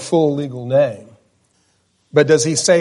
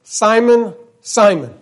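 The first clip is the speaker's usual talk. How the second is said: lament; 5 semitones higher, slower than usual. Retold or imitated. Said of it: "He says it twice".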